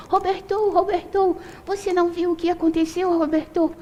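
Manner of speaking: chamado agudo bem mais alto no tom, sem volume extra; gritando pelo nome. Retold or imitated. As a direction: imitando a mulher que grita o nome dele pela casa. (mulher corre pela casa chamando Roberto, grito agudo imitado)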